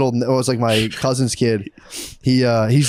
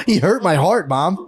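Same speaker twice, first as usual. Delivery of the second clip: put-on higher plaintive kid; mock wounded child; 4 semitones higher, slower than usual. Sensitive boy telling mom on the teasers, high wounded plea. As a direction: plead like a hurt little boy.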